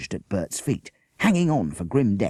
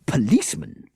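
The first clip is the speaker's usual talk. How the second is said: coldly; 6 semitones higher, 4 dB louder than usual. A narrator's reading. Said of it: "she said coldly".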